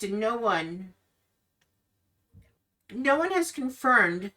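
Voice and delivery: Irina, hurt and searching. Acted. Irina confides her lifelong doubt to Ismark. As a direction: let the hurt of being kept in the dark show. Irina voiced in Curse of Strahd recap.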